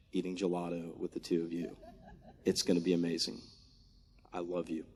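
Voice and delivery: soft laugh through the words; laughing gently into the words; laughing softly. Real, not acted. Laughing while addressing his children.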